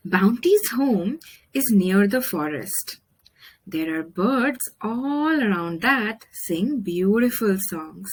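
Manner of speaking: put-on gentle storybook reading for young listeners; story narration. Storyteller reading a bird story to children, gently. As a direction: read it like a picture book to kids. Reads picture book aloud.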